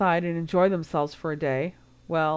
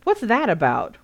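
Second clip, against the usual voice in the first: demanding; 4 semitones higher, 5 dB louder than usual. A narrator's reading. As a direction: press him hard for an answer. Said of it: "Ron demanded".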